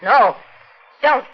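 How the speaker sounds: high panicked begging; terrified plea. Acted. Woman begs the killer not to stab her, terrified. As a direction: beg for your life at knifepoint. Pleading at knifepoint.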